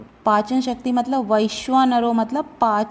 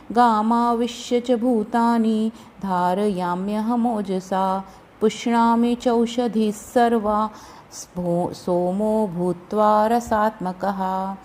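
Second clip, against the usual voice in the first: measured, level chant of a shloka; Sanskrit verse recitation; slower than usual. Shown as a demonstration. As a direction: recite the shloka evenly with drawn-out long vowels.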